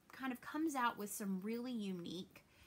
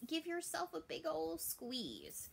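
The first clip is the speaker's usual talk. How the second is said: tender hug; 7 semitones higher than usual. Real, not acted. Host urging viewers to hug themselves, slow tender coax. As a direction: soothe them into a squeeze.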